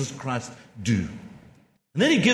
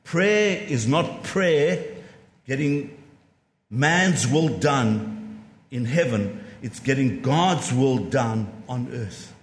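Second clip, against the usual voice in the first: slower, with pauses between the phrases; slow and deliberate; 4 semitones lower, slower than usual. Shown as a demonstration. Preacher repeating the quote to the congregation, slowly and deliberately. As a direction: spell it out so it sinks in. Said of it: "Let me say that again".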